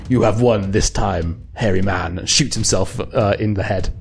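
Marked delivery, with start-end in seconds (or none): 0.1-2.2 Russian oligarch. Acted. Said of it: "looks at you and goes".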